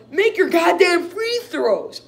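high, loud, slow furious demand; angry yell. Real, not acted. Fan to his team missing free throws, angry. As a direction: lean on every word in anger.

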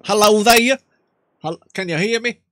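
lightly voiced old country man; Jebediah. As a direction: play a nervous rural grandpa. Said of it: "Jebediah might do".

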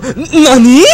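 laughing mock nani. Repeating mock anime nani.

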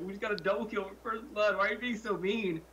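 high, indignant mock whine; whiny teammate. Retelling a whiny teammate's protest, high mock whine.

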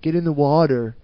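lightly voiced California surfer saying "water"; laid-back surfer accent, Californian vowels. Host pictures surfers heading into the ocean, Californian surfer accent. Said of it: "surfers from California being like".

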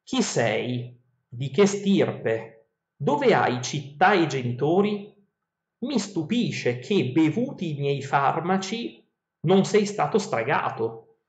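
slow, measured reading of ancient verse; epic verse reading. Acted. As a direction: read the verses like a storyteller. Reads Odyssey verses aloud.

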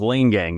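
Lane Gang with a long A, like "lane"; first syllable of Lane Gang as in a country lane; corrected name pronunciation. Shown as a demonstration. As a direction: say Lane Gang so the first word rhymes with "rain". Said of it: "the pronunciation".

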